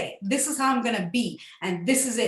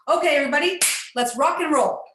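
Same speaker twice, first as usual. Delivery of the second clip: rallying; 4 semitones higher, 5 dB louder, faster than usual. Retold or imitated. Retold rallying of surgical team.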